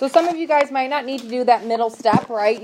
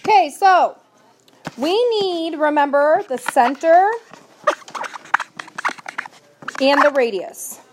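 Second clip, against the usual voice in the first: raised teacher voice; 4 semitones higher, 4 dB louder, slower than usual. Real, not acted. Teacher regains class attention.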